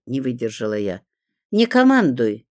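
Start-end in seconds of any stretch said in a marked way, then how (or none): 1.5-2.5 loud irritated snap at the intruder; barking rebuke. A narrator's reading. Woman at the stove barks at the narrator, loud and irritated. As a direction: bark it at the meddling neighbour. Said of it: "рявкнула на меня женщина".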